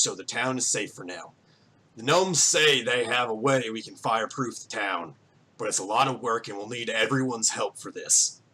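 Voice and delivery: lightly gruff voice addressing a crowd; mildly gruff town speech; gruff mayor. Acted. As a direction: speak as a weathered farmer running a meeting. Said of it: "a very gruff voice as he speaks".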